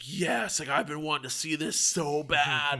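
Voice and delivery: mildly excited, eager yes; retold excitement. Friend jumps at seeing Batman versus Superman, retold excitement. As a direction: act out an eager acceptance.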